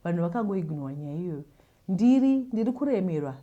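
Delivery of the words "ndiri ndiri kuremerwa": choked up. Real, not acted. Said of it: "ndiri kutadza kutaura neshungu".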